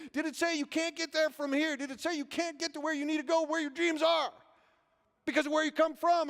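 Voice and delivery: high-pitched preacher building in volume; imitated preacher. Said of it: "he'd say".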